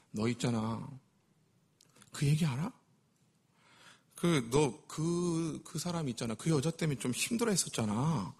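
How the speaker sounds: hushed, secretive gossip murmur; gossip whisper. Acted. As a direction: lean in and hint quietly. Gossiper hinting behind someone's back.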